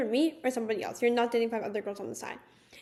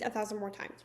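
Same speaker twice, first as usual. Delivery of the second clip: whispered; 5 semitones lower, 8 dB quieter than usual. Real, not acted. Exasperated about repeated please.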